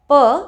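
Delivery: P with lips just pressed, no puff; unaspirated P. Shown as a demonstration. Teacher showing what to avoid, unaspirated P. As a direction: say P without a gush of air. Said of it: "by just pressing your lips together".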